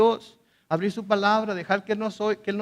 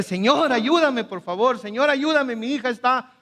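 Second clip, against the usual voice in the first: pleading cry; 5 semitones higher than usual. Retold or imitated. Mother begging Jesus to heal her daughter, crying out. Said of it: "empieza a gritarle".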